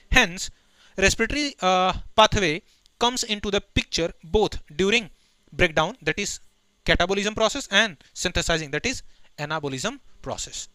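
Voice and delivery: slow, deliberate dictation pace; slow textbook recitation; reading the textbook aloud. Acted. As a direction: dictate each word to the class. Reads textbook line aloud.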